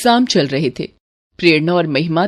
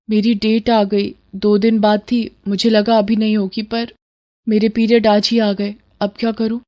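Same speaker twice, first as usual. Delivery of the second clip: worried and downcast. Acted. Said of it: "ये तेरा मुंह क्यों लटका हुआ है".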